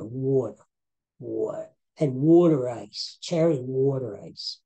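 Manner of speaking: Philadelphia accent. Shown as a demonstration. Podcaster demonstrating "water ice" for listeners, Philadelphia accent. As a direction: savour the Philadelphia sound of "water". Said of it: "that's my Philadelphia accent right there".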